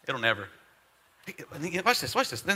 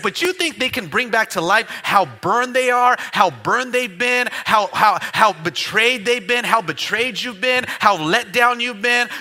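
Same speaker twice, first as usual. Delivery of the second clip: loud mocking taunt; 3 semitones higher, 8 dB louder than usual. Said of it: "He's like".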